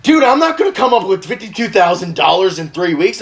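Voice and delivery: mildly panicked dad imitation; acting out a father in over his head; nervous and scared. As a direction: protest in mock dismay. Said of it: "so fucking nervous and scared".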